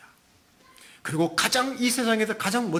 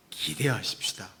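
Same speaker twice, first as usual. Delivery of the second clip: whispered; 5 semitones lower, 4 dB quieter than usual. Real, not acted.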